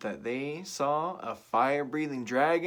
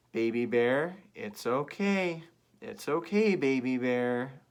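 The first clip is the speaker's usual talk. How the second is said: reassuring; 2 semitones higher, 4 dB louder, slower than usual. Shown as a demonstration. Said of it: "let's all together, let's say".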